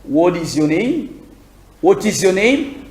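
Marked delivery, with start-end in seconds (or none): 1.8-2.9 British accent. Shown as a demonstration. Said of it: "Accent britannique".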